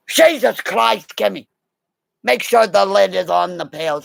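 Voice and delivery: a hint of the flustered chef; annoyed chef. Peter scolding Kimmy about the pails, mildly flustered. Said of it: "he goes".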